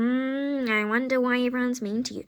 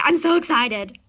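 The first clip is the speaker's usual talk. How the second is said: excited squeal; 5 dB louder than usual. Acted. Squeal to friend.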